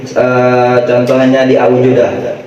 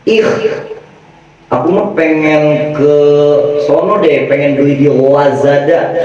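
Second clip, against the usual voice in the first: mock camp voice; faster than usual. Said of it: "rada lekong dikit".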